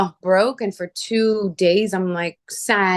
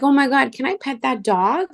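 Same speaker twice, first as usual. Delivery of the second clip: excited asking; 7 semitones higher than usual. Retold or imitated. Woman gushing to a shop clerk about petting a puppy, high and excited. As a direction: squeal it out, thrilled at the puppy.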